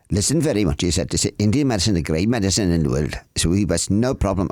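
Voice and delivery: lightly voiced Indian accent; playful attempt at an Indian accent; imitated Indian accent. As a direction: quote the surgeon in an Indian accent. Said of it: "I tried to do his accent".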